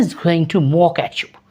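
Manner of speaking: hushed slow warning about mockery; whispered warning. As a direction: whisper it slowly, like a secret. (धीमी फुसफुसाहट में चेतावनी)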